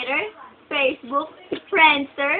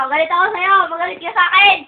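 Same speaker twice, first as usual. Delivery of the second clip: mildly raised mock-angry demand; touch of put-on crossness; pretend anger; 3 semitones higher, 5 dB louder, faster than usual. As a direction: goad him with playful anger.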